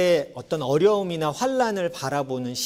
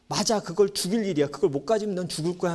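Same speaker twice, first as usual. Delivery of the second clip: mock agreeing parent; 4 semitones higher than usual. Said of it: "하면서 같이".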